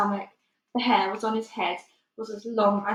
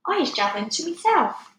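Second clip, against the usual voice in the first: high, louder anxious giant reply; nervous high answer; 7 semitones higher, 5 dB louder than usual. Acted. The BFG lying to the Bloodbottler, nervous high reply. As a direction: answer fast, covering up.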